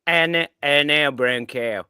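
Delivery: Australian accent. Shown as a demonstration. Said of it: "Australian with it now".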